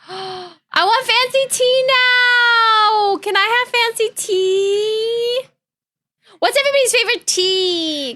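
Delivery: high, slow put-on posh English voice; playful upper-class English whine; mock posh British. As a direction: ham up a genteel British lady wanting tea. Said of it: "British tea party with posh accents".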